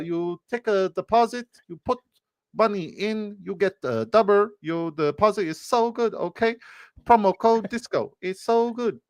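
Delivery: very high-pitched fake Asian woman's accent; mock Asian accent. Host reads the promo code, high mock Asian accent. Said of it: "Trying to do the Asian chick".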